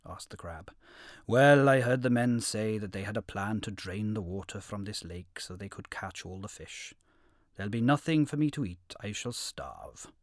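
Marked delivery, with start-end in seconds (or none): 1.3-10.1 heron voice. Acted. Heron laments in quoted speech.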